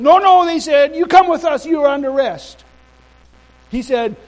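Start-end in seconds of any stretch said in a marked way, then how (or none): 0.0-0.4 high, loud cut-in; forceful police refusal. Retold or imitated. Police refusing to let the minister go, forceful. 1.0-2.6 raised, loud official order; insistent police command. Retold or imitated. Police insisting the minister come along, forceful command.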